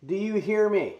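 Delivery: loud, high, through a welder's helmet; muffled in helmet. Real, not acted. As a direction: call out through the helmet visor. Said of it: "Might need a sound test with the helmet".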